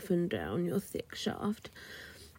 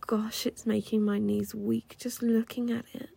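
whispering; 3 semitones higher than usual. Acted.

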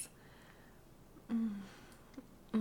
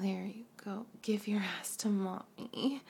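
normal talking voice

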